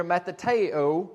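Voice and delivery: matateo spelled out slowly, each syllable clear, rising at the end; Greek word said slowly. Shown as a demonstration. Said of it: "But in Greek".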